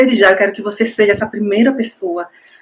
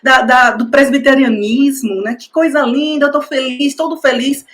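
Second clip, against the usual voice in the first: lightly voiced joyful elder, a bit higher; a touch of an old pastor's delight, raised pitch; happy elderly source; 3 semitones higher than usual. Informant's happy voice message, lightly imitated with higher pitch. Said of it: "mandaram um áudio, numa felicidade".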